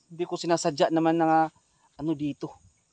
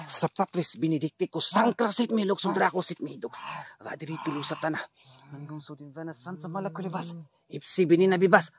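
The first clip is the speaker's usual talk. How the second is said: mock Latin incantation. Vlogger reciting an exorcism chant at the aswang. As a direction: intone it like a spell against evil.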